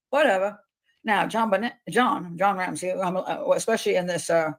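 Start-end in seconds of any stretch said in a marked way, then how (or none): 0.1-0.6 careless shrug of a word; dismissive. Retold or imitated. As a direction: toss it off dismissively. Mocking the father's indifference.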